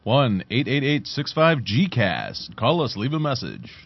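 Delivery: slow, measured hotline read; radio voice. Pretend. Co-host giving listeners the hotline, put-on radio voice. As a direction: put on a radio voice for the phone number. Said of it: "Like my radio voice".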